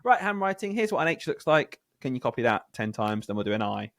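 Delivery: brisk mock teacher voice; a hint of a bossy teacher. Teacher mimics her plain handwriting lesson. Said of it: "instead of just being like".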